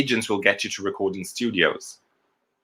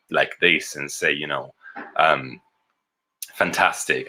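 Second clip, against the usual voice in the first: low voice demo; 5 semitones lower than usual. Shown as a demonstration. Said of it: "go low like this".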